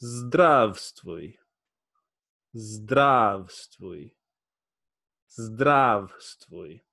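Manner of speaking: zdravstvui blended into one word, slowly; whole word zdravstvui, careful demo; syllables joined. Shown as a demonstration. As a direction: join zdrav and stvui smoothly. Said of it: "Together make".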